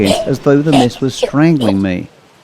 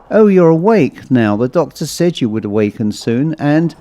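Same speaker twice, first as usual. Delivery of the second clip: lightly voiced nurse, higher opening; friendly nurse; 3 semitones higher than usual. Nurse to waking patient in hospital bed, friendly.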